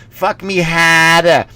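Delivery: put-on slow, drawn-out Boston accent. Comic imitating hacks, slow Boston accent. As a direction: stretch it out in mock Boston. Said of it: "when you go to Boston and they".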